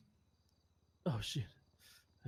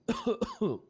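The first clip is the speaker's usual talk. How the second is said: dry heaving; 9 semitones higher, 3 dB louder than usual. Real, not acted. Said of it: "I threw up because there was so much puke".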